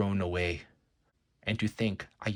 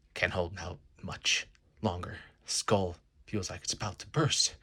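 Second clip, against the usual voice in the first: hushed, straining whisper; barely holding on, whispering through effort; strained whisper; 4 semitones lower, 5 dB quieter than usual. Acted. Captive hero straining against hypnosis, whispering. Straining under mind control.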